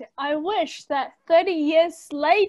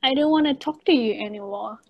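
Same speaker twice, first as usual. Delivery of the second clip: Kiwi accent; faster than usual. Shown as a demonstration. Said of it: "When a girl says".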